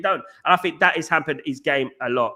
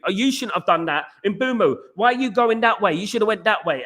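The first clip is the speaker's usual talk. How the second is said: blaming captain; 5 semitones higher than usual. Retold or imitated. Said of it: "will blame you".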